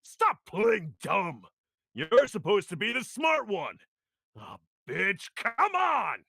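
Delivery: irritated audition read. Acted. Audition lines of an irritated character.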